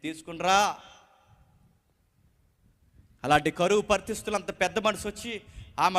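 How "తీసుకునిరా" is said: gently asking a widow for water; respectful request. Acted. Elijah politely asking the widow for water, gentle. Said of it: "చాలా గౌరవంగా".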